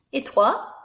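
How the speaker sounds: put-on squeaky child puppet asking a name; high puppet voice. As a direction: play the puppet, high and bright. Puppet voice again.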